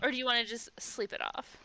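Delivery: lightly voiced bored valley girl; tired Valley Girl. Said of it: "The very tired Valley Girl".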